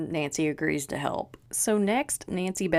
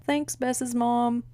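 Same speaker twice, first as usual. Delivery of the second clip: sarcastic thanks; 6 semitones higher, slower than usual. Real, not acted.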